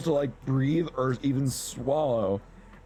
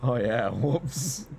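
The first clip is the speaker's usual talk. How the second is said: sheepish whoops; much slower than usual. Retold or imitated. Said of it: "And I'm like".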